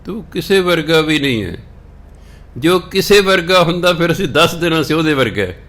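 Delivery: emphatic. Real, not acted. Preacher stresses God is incomparable.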